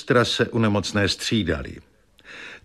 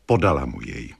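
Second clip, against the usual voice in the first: usual speaking voice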